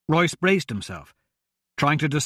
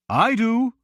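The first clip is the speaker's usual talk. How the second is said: higher, gentle monk; 8 semitones higher, 3 dB louder than usual. A narrator's reading. Myron speaking from the dark.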